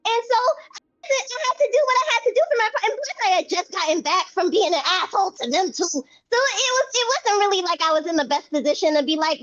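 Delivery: rambling, restarting self-defence; flustered. Acted. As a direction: stumble over yourself making excuses. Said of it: "adorable when you're flustered".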